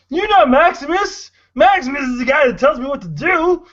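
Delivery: put-on high, slurry drunk Barney voice. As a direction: play a sloppy drunk cartoon barfly. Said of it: "the voice of Barney from The Simpsons".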